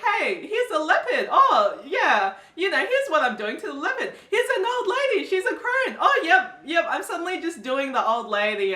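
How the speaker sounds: a high, breezy mock voice; laughing, offhand parody of the character; mock casual character. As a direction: play the guy as if it were nothing. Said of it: "just casually, like".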